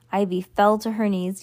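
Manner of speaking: ordinary delivery, nothing marked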